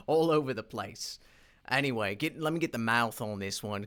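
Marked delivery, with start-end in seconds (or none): 0.1-1.2 laughing. Real, not acted.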